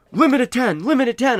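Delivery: high loud shouted limit call; mock yelling. Store staff calling the limit over the rush, loud mock yell. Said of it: "they're yelling".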